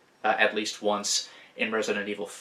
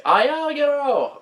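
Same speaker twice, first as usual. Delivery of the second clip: villager's yell; 7 dB louder than usual. Retold or imitated. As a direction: yell it out like an alarmed call. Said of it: "the villagers might yell".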